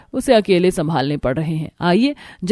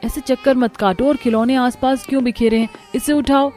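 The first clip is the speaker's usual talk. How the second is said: put-on scolding children; 5 semitones higher than usual. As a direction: call the running kids to order, raised voice. Mother scolding noisy children. (बच्चों को ऊँची आवाज़ में डाँटती माँ)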